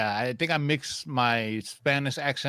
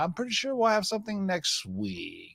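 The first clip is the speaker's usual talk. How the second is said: whispering; 6 semitones higher, 5 dB quieter than usual. Real, not acted. Hushed aside about upcoming releases.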